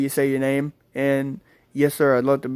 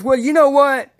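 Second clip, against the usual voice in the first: retold angry outburst, higher pitched; mad boyfriend; 7 semitones higher, 3 dB louder than usual. Storyteller acting out the boyfriend defying the cop, angry. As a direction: imitate a fed-up man's defiant rant, pitched up. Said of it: "That just made him mad".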